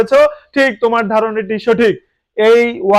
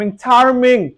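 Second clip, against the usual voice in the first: charming slowly broken as "char, ming"; split into syllables; 3 semitones higher than usual. Shown as a demonstration. Teacher breaking the next word, charming split as "char, ming". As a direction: say charming in two separate parts, char and ming. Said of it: "উচ্চারণ করতে গেলে আমাদেরকে একটু ভাঙতে হয়".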